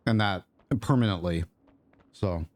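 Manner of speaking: talking with a mouthful; words round a bite of food; mouth full. Real, not acted. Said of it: "sorry, I had food in my mouth".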